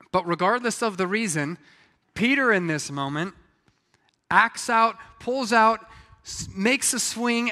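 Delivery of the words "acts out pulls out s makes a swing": dramatic emphasis. Real, not acted. Preacher dramatizing Peter's attack.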